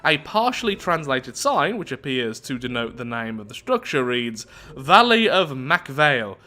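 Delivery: storyteller read with deliberate emphasis; event text narration. Acted. Reads event text aloud.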